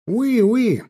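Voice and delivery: high French "oui, oui" called back; lifted, calling voice. A narrator's reading. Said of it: "что-то прокричав".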